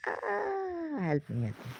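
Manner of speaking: voicing a desperate soul crying for help; pleading cry. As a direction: wail then plead weakly. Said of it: "I'm getting emotional".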